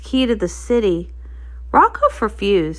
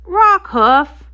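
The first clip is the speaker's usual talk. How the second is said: high, loud scolding shout of his name; sharp wake-up call; 7 semitones higher, 6 dB louder than usual. Acted. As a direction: snap him awake by name. Captain scolds sleeping Rockhoof.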